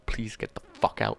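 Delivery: whispered desperate begging; whispered fan frustration; whispered plea. Real, not acted. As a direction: breathe the plea out. Reader pleads with character.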